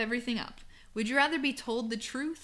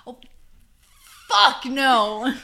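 louder burst of refusal; emphatic refusal; 4 semitones higher, 13 dB louder, much slower than usual. Retold or imitated. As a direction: blurt out the punchline. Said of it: "thinking of that TikTok".

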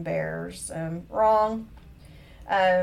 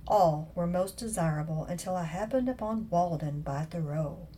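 mock-literary reading; 3 dB quieter than usual. Host reading her old corny email to listeners, lightly mock-literary. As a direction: read it out with understated mock formality.

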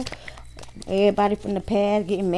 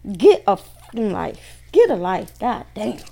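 real exasperation, punched openings; fed up. Real, not acted. Tarot reader tired of a jealous ex, exasperated. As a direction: snap out of sheer weariness with someone. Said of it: "I'm so tired of it".

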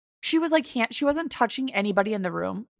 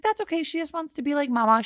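high, sugary reassuring tone; chirpy front-desk lady voice; sweet receptionist voice; 5 semitones higher, faster than usual. Retold or imitated.

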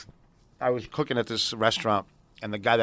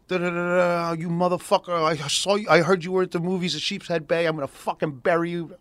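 angry threat; 5 semitones higher than usual. Retold or imitated. Ex-boyfriend calls again threatening.

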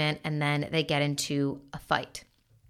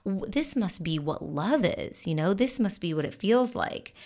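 breathless, higher, starry-eyed gush; giddy infatuation; 4 semitones higher than usual. Retold or imitated. Bobby swept off her feet by Brad, gushing giddily. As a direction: swoon over someone who is love bombing you. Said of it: "when someone is love bombing us of like".

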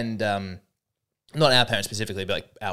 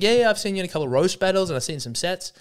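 imitating Sam; 7 semitones higher, faster than usual. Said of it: "He's like".

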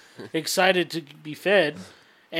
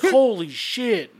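slow, higher mock gasp of shock; stunned surprise; 6 semitones higher, much slower than usual. Friend seeing the twisted knee, a slow stunned holy shit. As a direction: draw it out like you just saw a gross injury. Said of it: "he was like".

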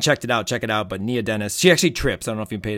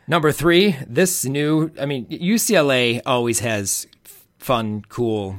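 loud, high-pitched list announcement; excited announcing; 4 semitones higher, 8 dB louder, slower than usual. Real, not acted. Co-host kicking off number three on the list, excited and loud. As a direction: launch the next item with a burst of excitement.

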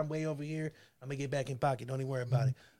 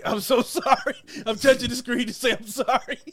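higher, breaking into laughter; laughing apology; 4 semitones higher than usual. Real, not acted. Host apologizing to Joni for a harsh joke, laughing. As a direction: apologize while cracking up.

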